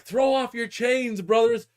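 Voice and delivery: high, loud, slow rallying cry; rally the comrades with drawn-out words; mock revolutionary speech; socialist agitator.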